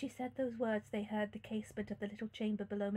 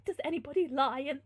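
slightly raised character voice; mildly voiced question; wrong character's voice; 4 semitones higher, 4 dB louder than usual. A narrator's reading. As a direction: begin tentatively in the wrong voice. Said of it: "sorry, wrong person".

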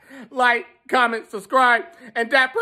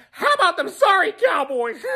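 gloating shout; 4 semitones higher than usual. Shown as a demonstration. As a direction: shout it like a mocking chant. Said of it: "Let me try that again".

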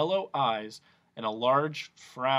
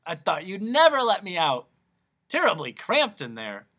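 louder, higher hammed monster; loud, raised creature voice; Din's voice; 5 semitones higher, 6 dB louder than usual. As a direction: complain like a cramped genie. The Din speaking.

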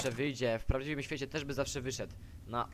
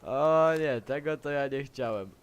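loud startled oh no; startled by own mistake; surprised oops; 9 dB louder than usual. Real, not acted. Accidental action.

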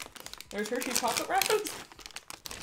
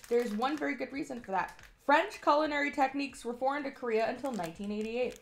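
lively announcer read of the blurb. Acted. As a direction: narrate it like a product commercial. Reads the product script.

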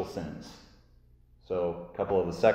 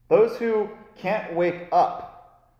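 mock disdain; 4 semitones higher, slower than usual. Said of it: "mocking sinner".

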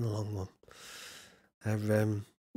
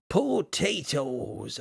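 attempted Irish accent; much slower than usual. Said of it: "say that in the Irish accent".

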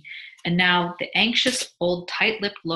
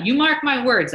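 high, loud emphatic boast; emphatic, excited assurance; boastful prediction; 7 semitones higher, 8 dB louder than usual. A narrator's reading. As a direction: proclaim it confidently with voice lifted. Husband boasts about the baby.

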